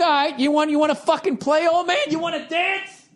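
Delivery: put-on high, taunting dare to an old man; mock challenge. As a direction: goad him like a rival. Challenging the old farter inwardly.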